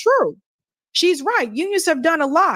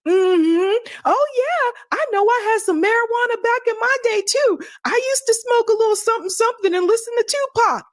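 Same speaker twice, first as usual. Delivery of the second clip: higher-pitched parody of folksy pandering; mock pandering politician; 6 semitones higher than usual. Host mocking politician playing to a crowd, pandering parody. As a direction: mimic someone trying hard to sound relatable. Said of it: "Black people don't say".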